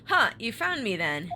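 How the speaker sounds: hero's voice, close to the reader's own; corrected take in the hero's normal register; natural pitch, lightly acted surprise; Ryu. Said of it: "Oh, wait, no, that's Ryu".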